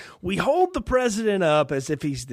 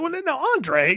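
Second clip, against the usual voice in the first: mock president on the phone; 10 semitones higher than usual. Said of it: "I was like".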